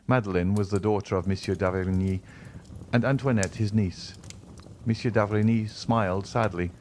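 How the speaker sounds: usual speaking voice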